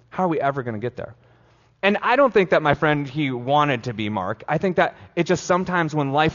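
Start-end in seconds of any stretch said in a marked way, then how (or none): 0.1-1.1 quick repeated question. Shown as a demonstration.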